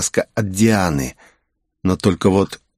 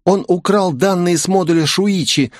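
higher-pitched cool female character; cool, raised-pitch objection; cold reply; 9 semitones higher than usual. A narrator's reading. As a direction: coolly justify yourself to the professor. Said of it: "холодно ответила девушка".

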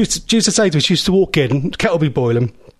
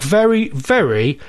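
mock disappointment; 4 semitones lower than usual. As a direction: draw out each "very" in playful dismay. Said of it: "I'm not happy with that at all".

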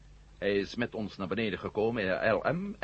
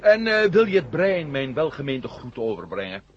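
spottend; 4 semitones higher, 9 dB louder than usual. Acted. Mocking greeting to the brain.

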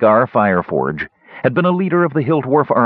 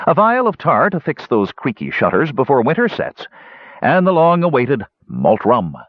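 satisfied; 6 semitones higher than usual. A narrator's reading. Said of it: "he finished with satisfaction".

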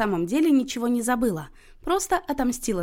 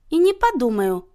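louder, higher, decisive refusal; curt refusal; 4 semitones higher, 6 dB louder than usual. A narrator's reading. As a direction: cut the plea off short. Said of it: "отрезала та". (отрезая, решительно)

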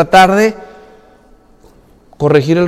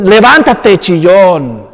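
stern rebuke; 2 semitones lower, much slower than usual. Retold or imitated. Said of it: "Le dice en el versículo diez".

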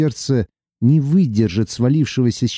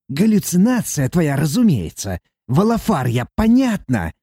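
higher, grating dwarf voice; nasty creaking voice; 5 semitones higher than usual. Acted. Dwarf demon mocking Sati in a grating voice. Valafar's held voice.

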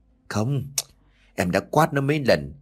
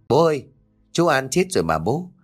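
put-on a small boy telling a scary dream; hint of a child's timid voice; frightened little boy; 3 semitones higher than usual. Child Tiến asks innocently.

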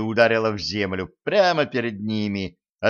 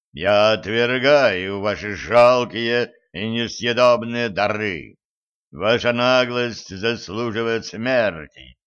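god of war voice; slower than usual. Acted. God Mars rejects gifts.

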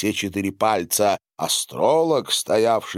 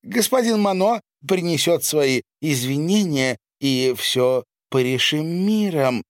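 loud appeal; 9 semitones higher, 3 dB louder than usual. Acted. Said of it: "произнесла громко".

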